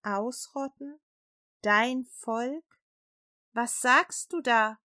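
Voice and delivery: mildly shocked, disbelieving questions; halting questions, each one left hanging in disbelief; appalled. A narrator's reading. King reacts to Esther's news, mildly appalled. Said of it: "sagte der König entsetzt".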